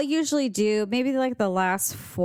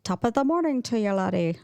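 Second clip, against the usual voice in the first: quick, half-hearted mock Irish; Irish accent. Co-host echoing the Irish greeting, quick amateur Irish accent. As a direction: toss off a brisk attempt at an Irish accent. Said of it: "I don't even try accents".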